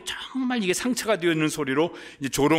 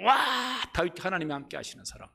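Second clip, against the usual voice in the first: admiring cheer; 4 semitones higher, 3 dB quieter than usual. Retold or imitated. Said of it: "다른 사람들이 다 다윗을 사랑했었고".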